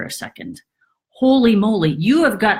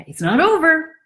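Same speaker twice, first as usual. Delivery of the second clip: a higher unvoiced whisper; 7 semitones higher, faster than usual. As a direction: warn them in a whisper. Warning aside.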